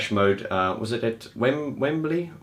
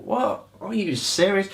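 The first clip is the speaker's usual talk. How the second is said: much higher, incredulous; disbelief; 10 semitones higher, slower than usual. Retold or imitated. Vlogger reacting to the grumbling fan, incredulous and high. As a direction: pitch it up in open disbelief. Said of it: "I just thought".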